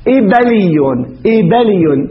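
إبلي with its middle vowel opened to "a"; fatha on the middle letter. Shown as a demonstration. Teacher models the nisba form, إبلي said "ibaliyyun". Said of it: "تفتح ال-، اللام، الباء".

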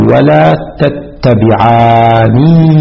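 "تتبعاني" chanted slowly with a single n; light, single nun. Shown as a demonstration. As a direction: draw out "ولا تتبعاني", keeping the final n undoubled. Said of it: "بالتخفيف".

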